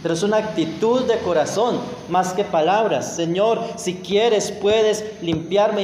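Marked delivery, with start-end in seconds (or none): 3.2-5.8 oración humilde. Shown as a demonstration. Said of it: "así debe ser todas nuestras oraciones".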